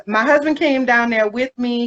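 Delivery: usual speaking voice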